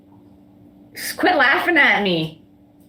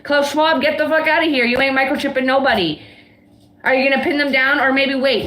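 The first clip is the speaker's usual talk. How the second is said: raised, angry telling-off; heated. Real, not acted. Cursing at Klaus Schwab over microchipping, heated. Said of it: "I'm heated".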